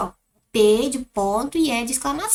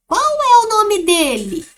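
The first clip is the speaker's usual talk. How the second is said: slow, higher questioning voice with a rise in pitch; a curious person asking the dog's name, louder and slower; 9 semitones higher, 7 dB louder than usual. Shown as a demonstration. Teacher reading the question aloud for the class, with a higher questioning voice. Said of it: "Olha a entonação".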